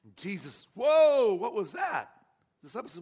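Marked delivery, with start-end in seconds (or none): 0.7-2.1 sudden loud whoa, then wondering; startled whoa. Retold or imitated. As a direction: react as if something just touched you. Jesus feels the touch.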